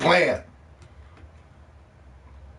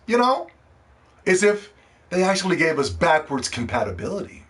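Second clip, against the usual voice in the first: building rhetorical question; 3 semitones higher than usual. Real, not acted. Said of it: "building rhetorical question".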